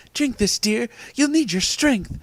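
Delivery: lightly voiced brisk nurse figure; high, put-on woman's voice. A narrator's reading. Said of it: "she said briskly".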